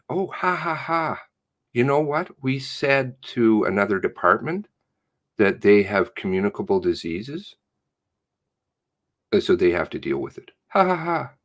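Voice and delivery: a sneering, laughing imitation of the nurses; mock their carelessness.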